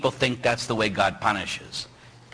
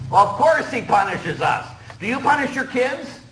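higher, rising challenge; emphatic retort; 9 semitones higher, 3 dB louder than usual. Retold or imitated. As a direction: throw it back as a question. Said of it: "I said".

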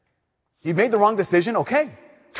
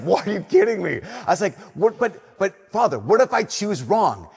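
higher, incredulous what-are-you-kidding; disbelieving protest; 4 semitones higher than usual. Retold or imitated. Preacher retelling his protest to Father Timo, incredulous. Retold disbelief at chaplain's advice.

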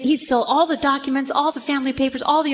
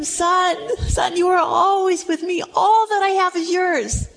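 pleading father; 5 semitones higher than usual. Acted.

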